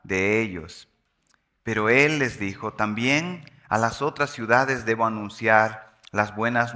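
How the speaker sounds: measured, phrase-by-phrase Bible reading aloud; scripture reading. Acted. Preacher reads the Gospel of Luke to the congregation, measured scripture reading. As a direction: read it out deliberately, pausing between phrases.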